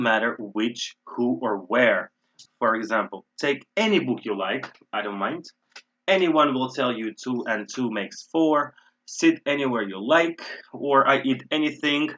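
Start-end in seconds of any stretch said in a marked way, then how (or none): 3.4-10.4 emphatic "any", "Anyone", "anywhere"; stress on any words. Shown as a demonstration. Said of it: "Again, emphasizing". 11.1-12.1 emphatic, raised "anything"; stress on anything. Shown as a demonstration. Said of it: "Again, emphasizing".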